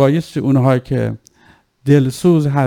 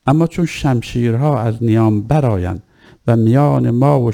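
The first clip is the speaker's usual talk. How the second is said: put-on measured, lightly lowered recital of an old text; formal maqtal reading; 3 semitones lower than usual. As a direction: recite the ancient speech with solemn weight. Reading Zuhair's words from the maqtal. (خوانش رسمی و آرام مقتل)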